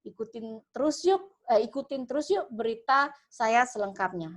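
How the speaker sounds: lively news-reporter hook, leaning in on unik; engaging reporter opening. Shown as a demonstration. Demoing a catchy opening for aspiring reporters, lively reporter voice. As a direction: pull the viewers in like a reporter on location. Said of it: "itu adalah opening yang menarik".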